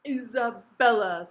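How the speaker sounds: loud, drawn-out royal roar; booming summons, stretched out; thundering. A narrator's reading. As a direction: thunder the name like an enraged king. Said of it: "thundered the king in such a loud voice".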